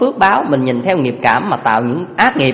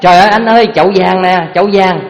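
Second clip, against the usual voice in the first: excited shout; 2 semitones higher, 4 dB louder than usual. Retold or imitated. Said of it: "cái nó la lên".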